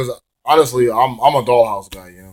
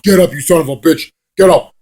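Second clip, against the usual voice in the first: higher, urgent taunting order; mock angry command; 4 semitones higher than usual. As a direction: act out goading a downed rival. Acting Angle taunting his opponent.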